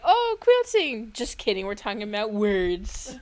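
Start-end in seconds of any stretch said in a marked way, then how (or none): 0.0-1.1 high, slow, loud sarcastic "Oh, quilting"; mock bored audience. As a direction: drag it out like a bored listener. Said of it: "They're like".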